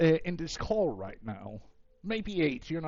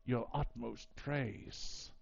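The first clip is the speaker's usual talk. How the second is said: lightly voiced measured deity; smooth things over with a slightly lowered, drawn-out ending; a hint of a dignified god, trailing softer; composed deity; 5 dB quieter, slower than usual. Game master voices a deity.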